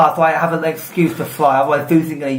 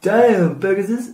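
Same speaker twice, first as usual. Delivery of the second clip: Pegasus voice; 6 semitones higher, much slower than usual. Pretend. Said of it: "as a request for you to do that again".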